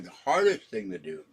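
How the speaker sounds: hiccup interrupting the words. Real, not acted. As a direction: speak through a hiccup. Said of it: "God, now I'm hiccuping".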